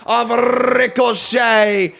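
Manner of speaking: loud, high-pitched, drawn-out teasing shouts; excited shouting. Real, not acted. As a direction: yell it out to the whole chat, slowly and gleefully. Teasing chat about Ricochet's jeans.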